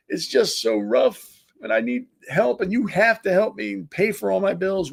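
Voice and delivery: lightly mock the whiner begging for help; mocking whiny victim. Ranting host mimics whiny people asking for help, mock whine. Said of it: "to cry and whine about".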